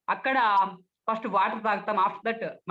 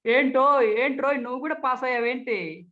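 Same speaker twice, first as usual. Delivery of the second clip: higher, scornful, careless questioning; dismissive; 3 semitones higher than usual. Shown as a demonstration. Speech trainer belittles someone who passed the exam, dismissive. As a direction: brush them off with disdain. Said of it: "నిర్లక్ష్యంగా".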